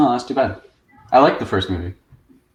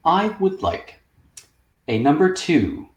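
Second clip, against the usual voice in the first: proper British. Retold or imitated. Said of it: "very proper British English".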